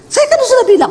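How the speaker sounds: imitating angry phone call. Rich man scolding his staff by phone, mimicked high and loud.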